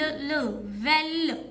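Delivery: "ल, वेल" with the ल drawn out slowly; धीमे खिंचा हुआ ल; stretched ल. Shown as a demonstration. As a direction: hold the ल long in "वेल". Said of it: "इसकी साउंड ही है वेल".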